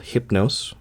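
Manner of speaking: Hypnos said "HIP-nohss", with a short i; English-Latin pronunciation. Shown as a demonstration. Narrator explaining the title to listeners, Hypnos said as "HIP-nohss". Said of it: "the more English pronunciation of the Latin form".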